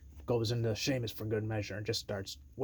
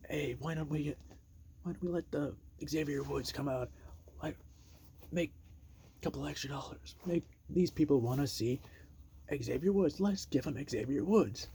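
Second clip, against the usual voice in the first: Miz impression; 4 semitones higher than usual. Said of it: "But The Miz says".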